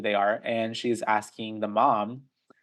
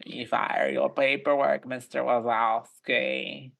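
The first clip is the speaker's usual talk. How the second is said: slow, drawn-out Roz imitation; lightly voiced Roz, slow and dry; Roz from Monsters Inc; slower than usual. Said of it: "almost like Roz from Monsters, Inc".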